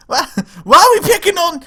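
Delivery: high, wavering granny voice; old granny voice. Pretend. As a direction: whine it like a frail grandma. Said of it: "the old granny voice".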